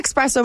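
"espresso" said as "ek-spresso". Real, not acted. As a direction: put a k in "espresso": "ekspresso". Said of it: "It's not ek".

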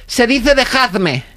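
high, slow know-it-all correction; smug correction. Retold or imitated. The impostor correcting the narrator's grammar, high slow pedantic voice. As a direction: spell it out like a pedant.

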